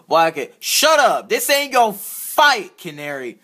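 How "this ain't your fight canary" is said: angry threat. Acted. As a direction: warn him off, hard and slow. Toy villain threatens the bird.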